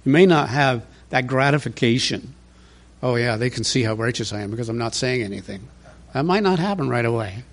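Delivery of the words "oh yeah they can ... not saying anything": mock smugness. Mock smug inner thought.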